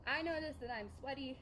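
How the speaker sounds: talking winded while holding plank; out of breath. Real, not acted. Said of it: "I'm out of breath".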